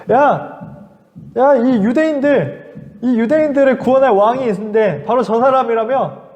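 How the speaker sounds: lightly voiced mocking Roman soldier. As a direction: taunt the crowd with scorn. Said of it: "이 사람들을 비웃기 시작했어요".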